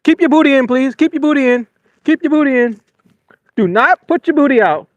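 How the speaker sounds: pleading. Real, not acted. Pleading with fish, laughing.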